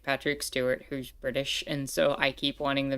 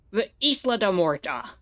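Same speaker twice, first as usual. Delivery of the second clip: mock movie Spanish; 2 semitones higher, 4 dB louder than usual. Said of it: "the way they pronounce Spanish in that is so awful".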